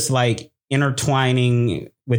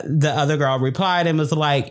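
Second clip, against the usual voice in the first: ordinary delivery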